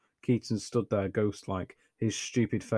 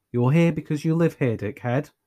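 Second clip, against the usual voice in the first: angry; 7 semitones higher, 6 dB louder than usual. A narrator's reading. Anya snapping at Keaton.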